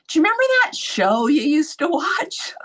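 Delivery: leaning in with a hushed whisper; a friend whispering close to her ear. Retold or imitated. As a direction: breathe it like a secret. Friend leans over, whispering.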